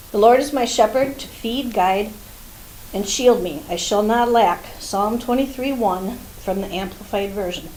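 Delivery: reading a little winded; short of breath, pushing through. Real, not acted. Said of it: "I'm kinda out of breath this morning".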